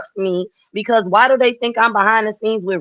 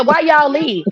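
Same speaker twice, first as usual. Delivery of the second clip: higher-pitched retold question; corrected quote; 6 semitones higher, slower than usual. Asking Miss Mimi why they left, higher-pitched. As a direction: lift the pitch on the whole question "Why y'all leave?". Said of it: "I said, I said".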